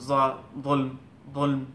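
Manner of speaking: যুলম with a heavy Arabic z sound; Arabic letter demo. Shown as a demonstration. Teacher shows যুলম to students, carefully articulated. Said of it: "দাদ দিয়ে আগেই বললাম".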